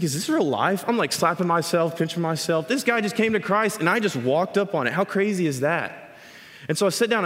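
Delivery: can't believe what he just walked into; amazed excitement. Retold or imitated. Speaker telling the congregation about his amazed excitement.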